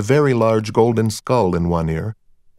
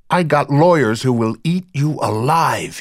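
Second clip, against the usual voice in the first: higher, aggressive boast; irate club boss, pitched up; angry threat; 4 semitones higher than usual. A narrator's reading. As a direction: threaten the officer with legal ruin. Angry club owner threatens officer.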